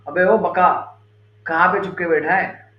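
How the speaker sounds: a loud, taunting call. Acted. Bhima calls out to the demon Baka, loud taunting call. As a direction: bellow it to draw the demon out of hiding. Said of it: "जोर-जोर से चिल्लाने लगे".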